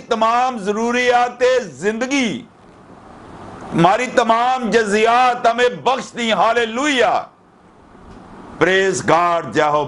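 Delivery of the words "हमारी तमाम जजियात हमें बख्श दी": normal talking voice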